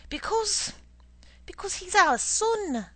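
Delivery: loud, high indignant shout. Acted. Wife shouting at her husband over their son's shoes. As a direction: shout it at him. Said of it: "don't shout".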